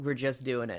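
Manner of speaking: ordinary delivery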